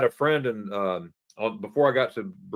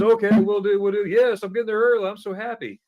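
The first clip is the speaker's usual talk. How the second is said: quoting friend; 10 semitones higher, 7 dB louder than usual. Retold or imitated. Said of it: "he goes".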